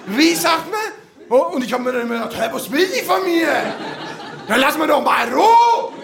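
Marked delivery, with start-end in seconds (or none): 0.1-0.8 scolding mother. Retold or imitated. 2.4-5.9 put-on annoyed kid. Kid's annoyed thought.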